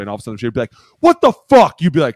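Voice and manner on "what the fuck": very high, loud mock outrage; outraged outburst. Lineman reacting to quarterback's change, outraged mock yell. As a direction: burst out in disbelief.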